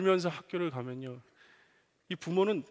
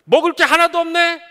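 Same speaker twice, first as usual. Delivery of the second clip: much higher and louder grumble; complaining shout; 12 semitones higher, 15 dB louder than usual. Retold or imitated. Son at the open fridge, loudly complaining. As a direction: whine loudly at the empty fridge. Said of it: "불평을 하기 시작합니다".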